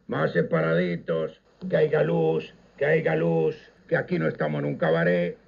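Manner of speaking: a stern club inspector loudly telling the dancers to keep apart; loud public scolding. Retold or imitated. Club inspector scolding young dancers in front of everyone, loud and stern. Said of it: "en voz alta, para que lo oyera todo el mundo".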